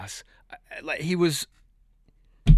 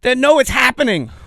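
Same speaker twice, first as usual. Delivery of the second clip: mock conspiratorial tease; 6 semitones higher, 5 dB louder than usual. Imitating Farley's teasing on camera.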